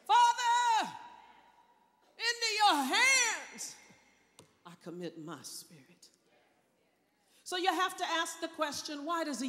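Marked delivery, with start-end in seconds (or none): 0.1-6.1 cried out loud. Shown as a demonstration. Preacher showing Jesus crying out, loud. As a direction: shout it to be heard. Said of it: "cried out with a loud voice".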